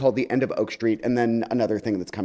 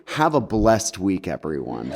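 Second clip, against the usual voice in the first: shady; 4 semitones lower, slower than usual. Retold or imitated. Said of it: "'cause I really wanted to be shady".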